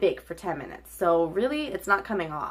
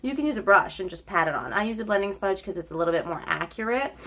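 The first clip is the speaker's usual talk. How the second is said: blocked nose; faster than usual. Real, not acted. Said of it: "Excuse me if I sound like my nose is blocked".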